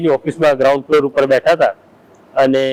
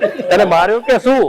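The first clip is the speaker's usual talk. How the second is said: higher-pitched mock holler; imitated calling out; 6 semitones higher than usual. Colleague's prank call to Mathur upstairs, mock holler. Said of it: "એણે બૂમ મારવાની શરૂ કરી".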